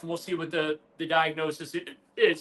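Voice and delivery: talking through hiccups. Real, not acted. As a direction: speak between hiccups. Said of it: "I got the hiccups here".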